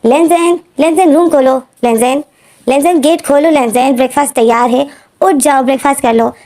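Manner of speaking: lightly voiced mom calling her son to breakfast; mother calling out. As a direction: call up to the sleeping son like a nagging mom. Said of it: "मामा जो आवाज़ करती है".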